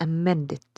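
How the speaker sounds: "amended" with the middle syllable stressed; change pitch on the second syllable of "amended"; stress on MEN. Shown as a demonstration. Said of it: "the stressed syllable is men in".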